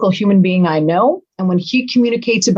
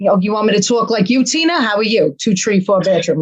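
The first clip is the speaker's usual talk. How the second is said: imitating an offended UK caller's accent; lightly hostile imitation of a UK accent; hostile mock UK accent. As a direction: put on a testy accent from the UK. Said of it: "just with hostile".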